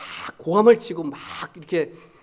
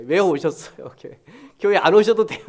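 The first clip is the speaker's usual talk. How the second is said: joking scold; 5 dB louder than usual. Retold or imitated. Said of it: "이렇게 했어요, 제가요".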